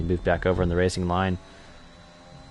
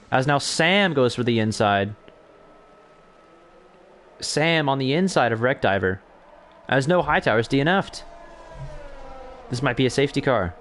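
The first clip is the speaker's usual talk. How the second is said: excited commentary; 4 semitones higher than usual. Real, not acted. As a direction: call the wheel-to-wheel fight live. Close battle, then a retirement.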